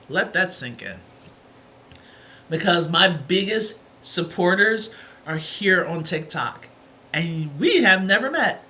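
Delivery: usual speaking voice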